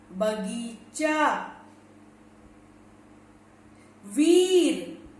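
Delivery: बगीचा and वीर said very slowly with long vowels; long vowels drawn out. Shown as a demonstration. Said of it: "इतना time लगता है". (दीर्घ स्वर को धीरे-धीरे खींचकर)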